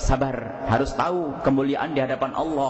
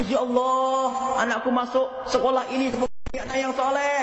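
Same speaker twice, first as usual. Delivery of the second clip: higher, faster mock tearful pleading; imitating tearful prayer; 8 semitones higher than usual. Mother praying for her bribed-in child, mock tearful plea. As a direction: mimic a mother praying tearfully, a little hammed. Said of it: "Doanya ibunya nangis".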